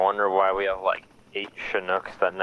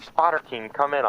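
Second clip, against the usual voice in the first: raised, clipped radio call; radio operator voice; 6 semitones higher than usual. Retold or imitated. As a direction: call over the radio, pitched up.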